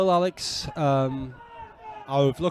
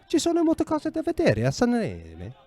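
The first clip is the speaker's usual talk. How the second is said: Ci sono molte cose da vedere a Sanremo? pitched much higher with a rising question tune in a put-on tourist voice; 11 semitones higher than usual. Shown as a demonstration. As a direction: ask it like a polite tourist stopping a stranger. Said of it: "you can say it as a question".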